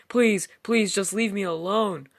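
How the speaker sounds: hoger en luider smeken; desperate begging. Acted. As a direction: smeek in paniek om met rust gelaten te worden. Begging the caller to stop.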